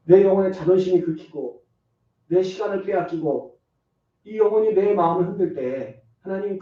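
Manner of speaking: earnest demonstration prayer; a sincere prayer modelled in the sermon; spoken prayer. Shown as a demonstration. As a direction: pray it aloud for the congregation.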